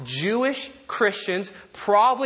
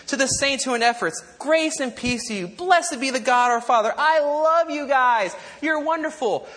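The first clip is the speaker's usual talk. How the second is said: affectionate greeting; 5 semitones higher than usual. Acted. Acts out Paul's usual affectionate greeting.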